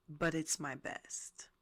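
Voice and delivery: breathy whisper, slow and honest; sincere whisper. Real, not acted. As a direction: admit it softly and slowly. Honest admission about her mental health.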